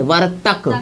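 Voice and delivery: वर्तक said with the full final तक, not cut to वर्त; correcting the word to वर्तक; correct ending. Shown as a demonstration. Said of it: "वर्त नहीं बोलना है".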